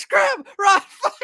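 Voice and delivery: very high, loud yelling; panicked mock shout. Crew running off with the key, hammed-up panicked shout. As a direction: shriek orders to flee, played for laughs.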